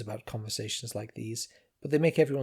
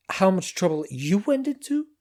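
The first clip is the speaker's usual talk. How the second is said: female character voice; 7 semitones higher, 6 dB louder than usual. A narrator's reading. Zenda voiced.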